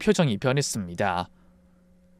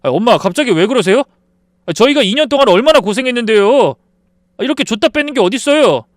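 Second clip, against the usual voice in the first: son's raised, indignant protest; angry protest; 8 semitones higher, 7 dB louder than usual. Acted. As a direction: snap back at your mother, offended. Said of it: "아들이 정색을 하며 화를 내더군요".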